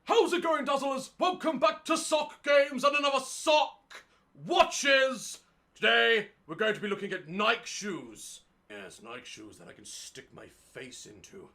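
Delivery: high silly sock puppet voice. Pretend. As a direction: play a goofy sock puppet host. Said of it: "Imagine if I let a sock puppet take over".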